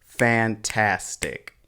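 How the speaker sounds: slow, split into three syllables. Shown as a demonstration. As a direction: say fantastic slowly in three beats, fan-tas-tic. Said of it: "Three syllables".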